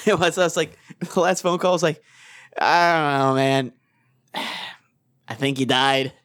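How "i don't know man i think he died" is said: halting, resigned farewell, sighing; low, resigned mock condolence; mock grief. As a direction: deliver a hammed-up eulogy with long pauses. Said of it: "all the stages of grief".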